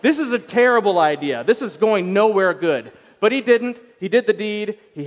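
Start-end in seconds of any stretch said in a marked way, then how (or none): 0.0-2.9 put-on a touch of a wary old man; mock warning. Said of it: "He should have been like".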